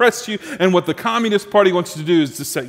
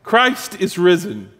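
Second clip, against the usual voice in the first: slow, deliberate call for a response; preacher leading the church in the Easter call, slow and proclaiming; Easter call to congregation; 2 semitones higher, slower than usual. Shown as a demonstration. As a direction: proclaim it slowly and wait for the answer. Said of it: "Let's try that".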